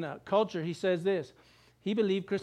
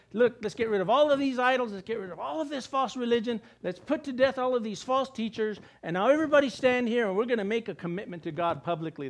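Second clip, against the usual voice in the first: commanding king; 3 semitones higher than usual. Retold or imitated. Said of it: "and he says".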